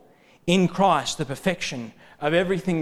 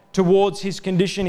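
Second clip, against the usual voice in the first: ordinary talk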